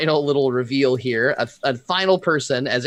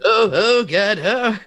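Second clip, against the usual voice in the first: higher frightened oh God; panicked gasps; 9 semitones higher, 4 dB louder, slower than usual. Acted. Thedor gasps in fear as he runs. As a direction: gasp in panic while fleeing. NPC panics while running.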